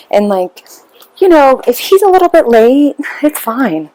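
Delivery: lightly voiced Bible study teacher, gushing and apologetic; sweet apologetic teacher. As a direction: play the sugary teacher who hates to bother her. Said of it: "She says".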